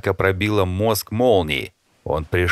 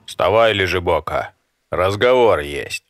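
a louder, unfamiliar brash voice; stranger's voice; 3 dB louder than usual. Acted. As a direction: wake him up like a cocky intruder. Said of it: "услышав незнакомый голос".

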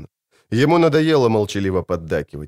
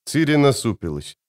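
ordinary delivery, nothing marked

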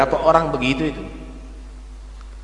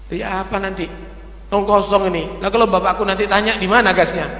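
put-on worried child building up; 2 semitones higher than usual. Child panics over spilled gas.

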